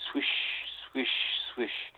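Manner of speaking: swish like skis sliding nearer, with pauses; imitated ski swishes. Storyteller imitating skis closing in on a child, soft swishing. Imitating the approaching skis' sound.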